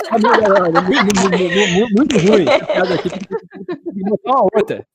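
put-on grumpy old man complaining; creaky elderly grumble, lightly done. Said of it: "com voz de velho". (voz de velho rabugento)

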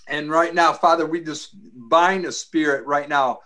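commanding prayer voice; deliverance prayer. Acted. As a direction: rebuke spirits in prayer, firmly.

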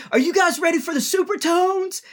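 high, hammed-up emcee hype; mock the emcee whipping up the crowd; high-pitched mock announcer. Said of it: "and he goes".

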